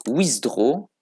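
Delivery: slow, drawn-out English word in a French accent; self-mocked "super" English accent, really French. Real, not acted. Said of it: "Avec mon super accent anglais".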